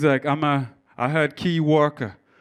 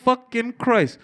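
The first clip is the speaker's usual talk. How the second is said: outraged at the price; 7 semitones higher than usual. Retold or imitated. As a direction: squeal at the price of a can of Coke. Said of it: "you're like".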